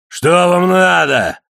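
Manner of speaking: slow, loud, high growl from the galley. A narrator's reading. Cook snapping at the mate, slow loud growl. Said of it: "прорычал Железный Кулак".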